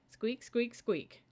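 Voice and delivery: high, playful mouse squeaks. Acted. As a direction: squeak squeak like little mice. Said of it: "they said together".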